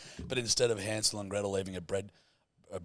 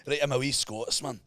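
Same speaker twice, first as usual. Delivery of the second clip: put-on Scottish accent; 3 semitones higher than usual. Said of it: "a Scottish person talks like that".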